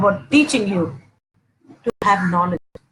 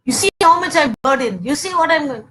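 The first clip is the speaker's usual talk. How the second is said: raised-pitch, mildly exasperated complaint; irritated wife; 4 semitones higher than usual. Acted. Wife nagging husband glued to the TV, irritated. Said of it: "get irritated".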